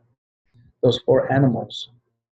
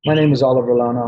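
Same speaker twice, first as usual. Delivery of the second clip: a touch faster and louder, bright pitch; upbeat introduction demo; 3 dB louder, faster than usual. Shown as a demonstration. Presenter to the room, a quicker, more energetic intro. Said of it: "I'll use my wife's name".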